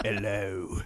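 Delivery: creepy put-on Kentucky accent. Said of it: "creepily picks up the mic".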